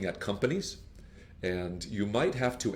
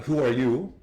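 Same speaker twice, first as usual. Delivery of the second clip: curt, slightly louder who are you; blunt rude question; 3 semitones higher, 5 dB louder than usual. Shown as a demonstration. Teacher showing the rude way to answer the phone, abrupt. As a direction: sound abrupt, not polite.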